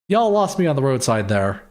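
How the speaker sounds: light Southern twang; lightly voiced Texan customer; touch of Texas in the vowels; American Southern accent. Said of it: "they're using an American Southern accent".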